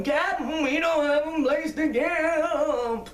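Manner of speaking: high, slow, plaintive plea to the captain; pleading lost camper. Retold or imitated. Lost campers begging the captain for a campsite, high and plaintive. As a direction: voice the stranded campers begging for a spot.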